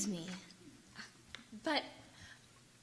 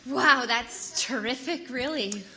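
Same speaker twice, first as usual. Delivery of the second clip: slow, higher, softer overpraise; slow higher hollow wow; forced enthusiasm; 4 semitones higher, 5 dB quieter, slower than usual. Acted. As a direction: fake delight.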